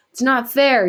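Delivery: high, loud, furious cry of unfairness; screaming. A narrator's reading. Boy bursting in, screaming at everyone. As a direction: scream it out in anger. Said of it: "he screams".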